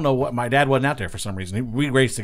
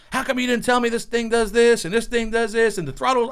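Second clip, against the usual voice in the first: mock angry dad; 11 semitones higher than usual. Dad yelling at son, retold.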